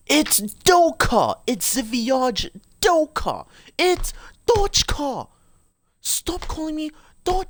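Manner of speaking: very high, drawn-out character squeal; slow, high-pitched comic whine; squeaky mock protest. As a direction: protest your name in a high silly voice. Mock-protest over a mispronounced name.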